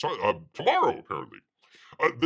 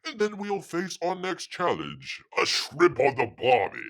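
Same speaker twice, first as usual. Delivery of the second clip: hammed-up, badly faked Australian accent; comic mock-Australian reading; terrible Australian accent; 7 semitones higher, 4 dB louder than usual. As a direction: put on a bad Aussie voice. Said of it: "Bear's very terrible Australian accent".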